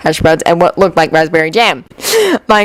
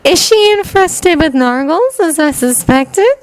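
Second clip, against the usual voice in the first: high, slow, earnest question; solemn, high-voiced inquiry; serious; 10 semitones higher, slower than usual. A narrator's reading. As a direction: ask it slowly in all seriousness. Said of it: "Luna asked seriously".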